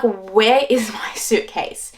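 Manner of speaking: slow, drawn-out retold worry; lightly dramatized anxious question; mock anxiety. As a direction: stretch out "where" in disbelief. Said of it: "getting really anxious".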